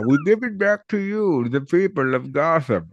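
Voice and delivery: slow, high villain impression; drawn-out comic-book villain; Bane voice. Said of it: "In the words of Bain".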